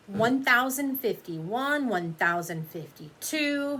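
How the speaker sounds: slow sulky counting. Acted. Lily sulking in the chair, slowly counting. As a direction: count each number slowly, stubborn. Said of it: "she's counting".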